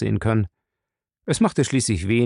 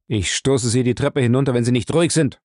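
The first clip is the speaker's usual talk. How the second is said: stern; 3 dB louder than usual. Acted. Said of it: "sagte Jim ernst".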